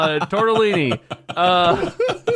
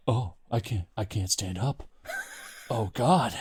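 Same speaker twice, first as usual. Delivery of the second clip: mock weak groaning; 7 semitones lower, 5 dB quieter than usual. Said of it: "They're like".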